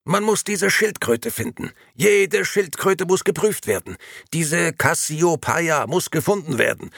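very high, agitated commands; barking orders in a panic; frantic orders. A narrator's reading. Grey men in excited uproar.

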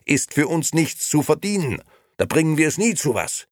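loud, exasperated argument, climbing in pitch; calling out. A narrator's reading. Nino complains to his wife about poor customers, loud. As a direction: argue back loudly. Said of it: "rief Nino".

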